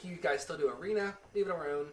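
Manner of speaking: light mock Chinese accent; a quick, half-joking Chinese accent. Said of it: "I said that in a Chinese accent".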